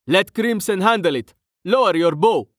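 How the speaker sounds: high-pitched, urgent order; tense, high-voiced scolding; urgent hiss. A narrator's reading. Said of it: "Brovos hissed".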